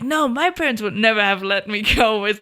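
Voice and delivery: quoted friend, laughing through the words; laughing disbelief. Retold or imitated. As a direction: mimic a friend who can't believe it, half laughing. Quoting friends, laughing mid-line.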